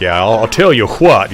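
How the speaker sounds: lightly put-on Southern gentleman; a hint of ridiculous Southern gent. Shown as a demonstration. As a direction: play the Southern gentleman a little. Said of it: "Southern gentleman style voice".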